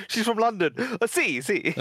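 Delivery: bad, hammed-up Italian accent; mock Italian accent. Teasing a friend about his nan, in a bad mock Italian accent. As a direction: joke Italian accent to a mate. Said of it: "Like a worse Italian accent".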